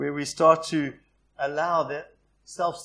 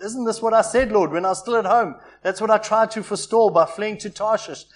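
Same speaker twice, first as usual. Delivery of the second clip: Jonah's indignant complaint, raised and louder; a prophet protesting to God, raised voice; angry prayer; 2 semitones higher, 6 dB louder than usual. Retold or imitated. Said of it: "He prayed to the Lord".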